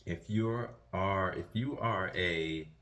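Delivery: talking around retainers; wearing a retainer. Real, not acted. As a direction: retainer in, slightly muffled speech. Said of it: "got my retainers in".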